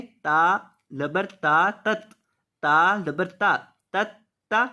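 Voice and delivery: spelling out तत्तकून sound by sound; syllable by syllable. Shown as a demonstration. Teacher breaking the word into parts for students. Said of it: "इसके तोड़ जोड़ देख लें".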